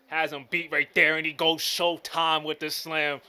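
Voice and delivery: loud, rising hype call; excited call. Real, not acted. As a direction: build into the slam like a broadcaster. Calling a big dunk play.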